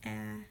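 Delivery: "Cat" split into k, a, t; sounded out slowly. Shown as a demonstration. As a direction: slowly give each sound of "Cat" separately, softly. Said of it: "sound it out first so they can say it slow".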